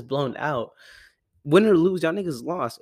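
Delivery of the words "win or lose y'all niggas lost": loud, high taunt at rivals; gloating. Real, not acted. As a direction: rub it in, laughing loudly.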